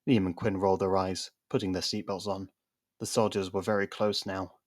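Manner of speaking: plain reading voice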